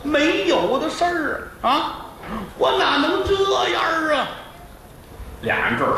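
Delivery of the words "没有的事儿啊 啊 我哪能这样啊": high, wailing protest; mock tearful wife; crying wife. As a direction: plead through tears. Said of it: "媳妇儿这儿就哭".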